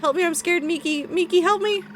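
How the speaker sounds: high, pleading cries for help; character terrified of disappearing, begging; scared pleading. Acted. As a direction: call for Miki in panic. Character panics, calls Miki.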